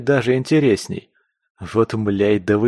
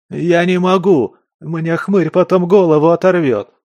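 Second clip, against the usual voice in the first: much higher, louder terrified begging; desperate pleading; 8 semitones higher, 6 dB louder than usual. Acted. Captive to interrogator, desperate pleading. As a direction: beg for mercy in panic. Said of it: "взмолился Скворец".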